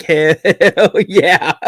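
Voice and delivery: high, loud Southern redneck holler; mock a proud redneck cheer; redneck hell yeah. Imitating redneck daughter.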